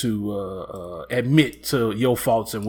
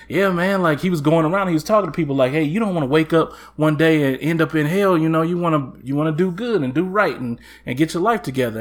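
preacher voice; 3 semitones higher, 4 dB louder than usual. Retold or imitated. Preacher voiced calling out sinners.

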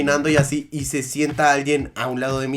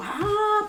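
put-on child's scream; 3 dB quieter than usual. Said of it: "como voz de niño".

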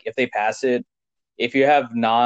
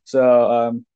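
chewing while talking. Real, not acted. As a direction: mouth full of food. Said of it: "Sorry for the eating A S M R".

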